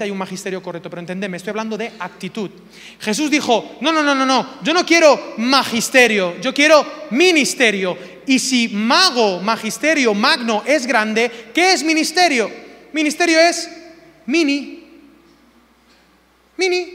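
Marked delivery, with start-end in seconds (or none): 3.8-8.0 loud, high, forceful declaration; emphatic refusal. Acted. Preacher acting out Jesus refusing magisterio, emphatically. 14.3-16.9 high, short little word; tiny high voice. Shown as a demonstration. Preacher showing what ministerio means, in a small high voice.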